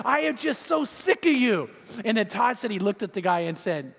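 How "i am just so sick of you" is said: exasperated retold outburst, higher pitch; mock yelling. Angry man telling off the surfer, mock yelling. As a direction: act out someone thoroughly fed up. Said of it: "like, screaming and yelling".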